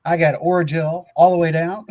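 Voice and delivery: speaking through a numbed mouth. Real, not acted. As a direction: lips numb from Orajel. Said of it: "this side of my mouth is numb".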